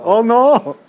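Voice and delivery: quick mock Asian accent on two words; imitated Asian accent. Retelling how the Vietnamese friend talked, Asian accent imitated. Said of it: "he did the Asian accent so perfect".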